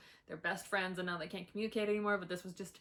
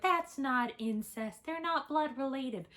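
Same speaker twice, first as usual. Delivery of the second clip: mock objector; 5 semitones higher, slower than usual. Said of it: "I know some people will be like".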